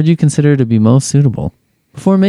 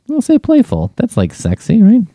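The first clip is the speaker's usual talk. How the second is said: playful; 11 semitones higher than usual. Pretend. Picks answer "playful.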